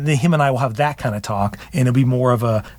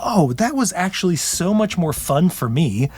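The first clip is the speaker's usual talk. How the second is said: delighted realization; 5 semitones higher, slower than usual. Retold or imitated. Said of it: "And I was like".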